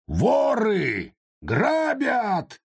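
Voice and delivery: high shouted alarm. Acted. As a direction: yell for help. Yard keeper raising alarm.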